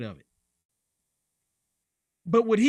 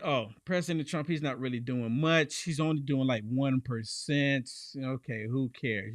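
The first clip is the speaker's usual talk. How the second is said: mocking dismissal; 5 semitones lower, 3 dB quieter than usual. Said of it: "the Democrats say".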